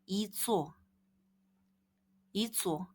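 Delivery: first vowel of 이ጹ slightly long; lengthened vowel. Shown as a demonstration. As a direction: stretch the first vowel a little. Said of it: "이를 살짝 길게 한다고".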